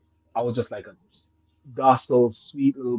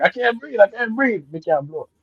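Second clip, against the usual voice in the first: gasping panic; 7 semitones higher than usual. Retold or imitated. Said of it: "I was like".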